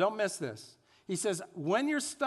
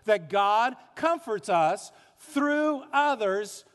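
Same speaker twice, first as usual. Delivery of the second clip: congregation recitation; 3 semitones higher, slower than usual. Shown as a demonstration. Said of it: "Let's all say it together".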